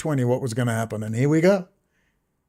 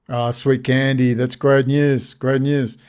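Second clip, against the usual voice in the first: mock sweet; slower than usual. Fake-sweet reply to Candace.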